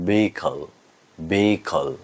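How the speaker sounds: ভেহিকল said with no h sound; careful teaching demo of ভেহিকল, h silent; silent-h pronunciation. Shown as a demonstration. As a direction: say ভেহিকল as "vee-ikal", h dropped. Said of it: "এর উচ্চারণ হচ্ছে".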